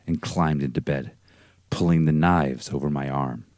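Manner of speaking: low, hushed spooky telling; storyteller voice. Acted. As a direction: read it like a campfire ghost story. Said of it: "let me get my storyteller voice ready".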